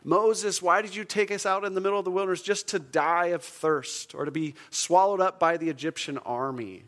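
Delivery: loud, high-pitched mock complaint; acted grumbling, starting high and loud, then easing. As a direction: protest as an aggrieved Israelite. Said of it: "the Israelites grumbled against Moses".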